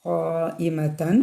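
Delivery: ഖായിമത്തൻ recited very slowly, long vowel held four counts; stretched vowel. Shown as a demonstration. Teacher repeating ഖായിമത്തൻ for students with the vowel held long. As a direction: hold the madd in ഖായിമത്തൻ long and slow. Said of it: "നിർബന്ധമായിട്ട് നീട്ടുക".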